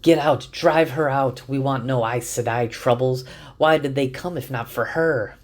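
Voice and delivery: put-on an upset old man yelling at the crowd; angry yelling. A narrator's reading. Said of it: "is yelling".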